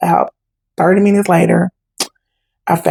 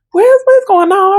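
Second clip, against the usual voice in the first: much higher, slowed, startled what's going on; confused alarm; 13 semitones higher than usual. Retold or imitated. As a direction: stretch it out in disbelief. Teen confused at gas station.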